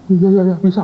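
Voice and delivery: nervous yes. Retold or imitated. Student nervously agrees.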